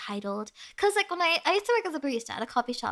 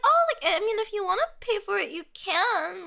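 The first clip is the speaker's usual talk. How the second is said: high chirpy barista; 7 semitones higher than usual. Retold or imitated. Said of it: "I was literally like".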